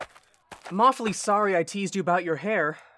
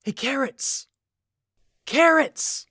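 teasing call; 9 semitones higher, 3 dB louder than usual. Acted. Boy teasing, calling across class.

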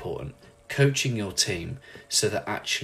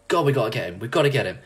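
lightly acted panicky dad; mock panic; 2 semitones higher, 4 dB louder, much faster than usual. Nemo's dad sees his little one leave the current, mock panic. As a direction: play a worried father, mildly urgent. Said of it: "Nemo's dad shits his pants thinking".

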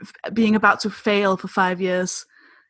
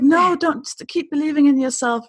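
lightly imitated higher-pitched pep talk; Oprah inspirational; 5 semitones higher than usual. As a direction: gush encouragement, pitch lifted, as a light imitation. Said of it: "being very, you know, very, uh, Oprah inspirational".

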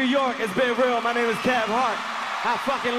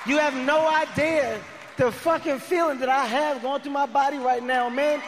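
emotional thank-you; 5 semitones higher than usual. Real, not acted. Comedian thanking the Madison Square Garden crowd, overwhelmed and emotional. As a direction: pour it out to the crowd, choked with feeling. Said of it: "try not to be a bitch and get emotional".

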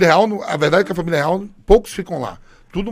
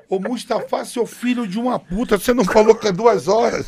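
higher, indignant complaint; mock angry; 5 semitones higher than usual. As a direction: chew out the translator. Xingando o tradutor na cela. (bronca indignada no tradutor)

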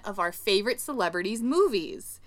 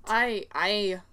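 playful, rough stab at Scottish; mock Scottish accent; slower than usual. Host aping the Scottish film's characters, mock Scottish accent. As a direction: put on a hammy Scottish burr.

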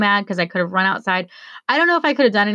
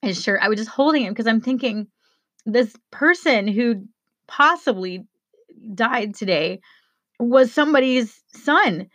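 choked up; 4 semitones higher than usual. Real, not acted. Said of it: "I get a little bit choked up".

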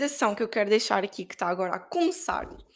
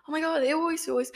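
mock eager gushing; 5 semitones higher than usual. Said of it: "não foi assim que eu disse".

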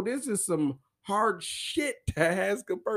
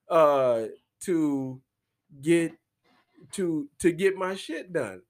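imitating bestie; 3 dB louder than usual. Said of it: "she's like".

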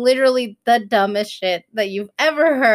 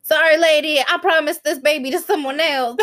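playful, pitched-up excuse; mock apology; 6 semitones higher than usual. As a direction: call it out to an imagined stranger. Acts out snatching a promised baby.

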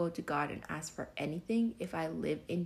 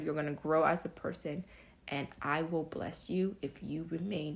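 voicing God. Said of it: "God said".

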